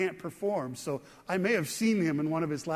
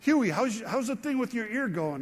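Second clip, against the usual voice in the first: put-on a light New Jersey accent, slightly raised; 4 semitones higher than usual. Drummer asking his singer friend after his ear, mild New Jersey accent. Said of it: "he just kinda said with that accent".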